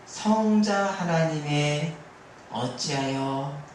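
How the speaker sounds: slow, softening lament, quoted from the pulpit; a preacher's slow imitation of a sighing prayer; retold lament. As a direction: draw out the plea as an understated lament, letting it sink. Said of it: "라고 하는 이 탄식".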